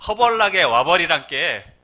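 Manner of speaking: loud, slow Jeolla accent; Jeolla dialect. Shown as a demonstration. Preacher turns "come quickly" into loud Jeolla accent. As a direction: belt it out as a Jeolla local. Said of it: "전라도".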